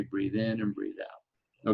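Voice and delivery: slow, drawn-out breathing cue. Shown as a demonstration. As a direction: stretch the cue out slowly. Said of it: "And then I'll say".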